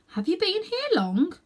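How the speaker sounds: put-on dreamy girl. A narrator's reading. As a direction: voice the sleepy girl. Girl's voice in story.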